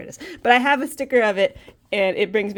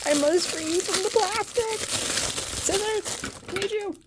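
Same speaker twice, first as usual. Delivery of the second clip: mock heroic declaration; 8 semitones higher, 5 dB quieter, slower than usual. Mock quest to open packaging.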